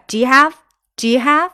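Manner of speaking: fast linked do you. Shown as a demonstration. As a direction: Do you have run together quickly, do you blurred into one. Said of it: "它会很快很快". (把Do you读得很快连在一起)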